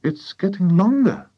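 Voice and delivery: put-on high boy's voice; young boy. A narrator's reading. George watching the cockerel's neck, boy's high voice. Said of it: "George said".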